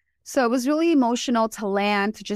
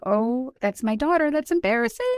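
much higher, playful mock embarrassment; 7 semitones higher than usual. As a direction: squeal it up high like a teasing mom. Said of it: "I'm like".

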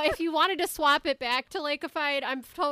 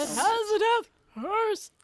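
ominous warning; 6 semitones higher than usual. Retold or imitated. Echoing Ralph's warning.

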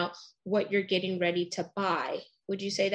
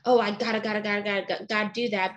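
desperate; much faster than usual. Retold or imitated. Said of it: "you're desperate".

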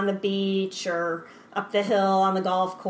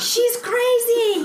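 high, slow, laughing exasperation; mock exasperated chef; 6 dB louder, much slower than usual. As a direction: play the fed-up chef. Voicing the annoyed French chef.

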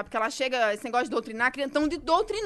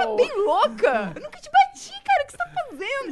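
child imitating; 11 semitones higher, 3 dB louder than usual. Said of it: "retelling the daughter".

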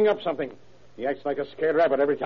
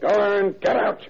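angry; 5 semitones higher, 3 dB louder, slower than usual. Acted. Father throws son out.

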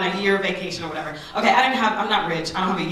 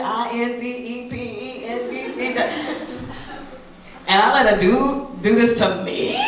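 laughing in disbelief; 3 semitones higher, slower than usual. Real, not acted. Laughing at her own shame.

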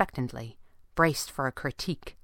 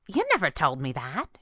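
ordinary delivery, nothing marked

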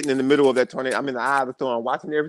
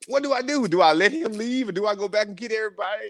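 panicked inner question; 10 semitones higher than usual. Retold or imitated. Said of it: "And I'm like".

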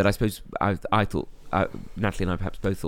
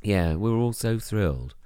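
deadpan. Real, not acted. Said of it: "in, like, a really deadpan way".

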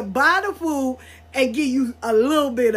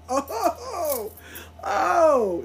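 laughing; 4 semitones higher, much slower than usual. Real, not acted. Cracking up at the memory.

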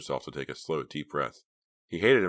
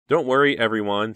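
high, loud, nervously reassuring; scared; 6 semitones higher, 9 dB louder than usual. A narrator's reading. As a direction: try to calm everyone while scared. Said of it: "still sounding scared".

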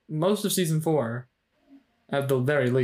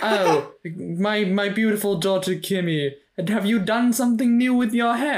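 mock posh mother; 5 semitones higher than usual. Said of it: "it's one of those things where it's like".

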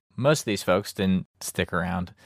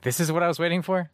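disbelieving; 9 semitones higher, faster than usual. Retold or imitated. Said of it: "I was like".

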